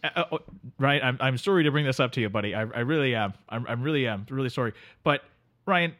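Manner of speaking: sleepy Canadian drifter greeting his pal; Canadian accent. Acted. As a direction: play the neighbourly Canadian couch guest. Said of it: "Our friend from the north".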